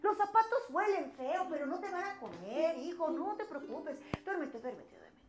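calm father. Acted. Father calms his scared son.

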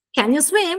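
"Can you swim?" pitched high, arching up on swim; teacher's repeated demonstration, high on "swim"; umbrella intonation. Shown as a demonstration. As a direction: send "swim" upward as a model question. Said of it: "fa formare sempre la mia forma dell'ombrello".

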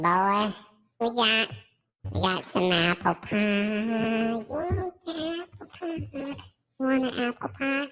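filtered streamer voice. Acted. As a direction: talk through a voice filter. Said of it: "take the voice filter off".

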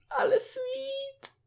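very high, slow coo. Real, not acted. Player coos over the tiny baby, high and slow.

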